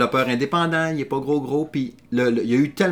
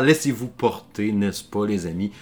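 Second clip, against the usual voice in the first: mock sensual voice; 3 semitones lower than usual. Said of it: "avec ma voix sensuelle".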